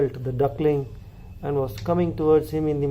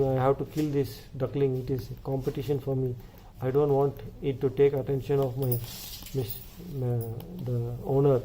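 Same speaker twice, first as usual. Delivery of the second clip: softer, secretive plotting voice; scheming hen; 6 dB quieter than usual. Acted. Jealous hen plots against the duckling, softer and secretive. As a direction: plot it under your breath.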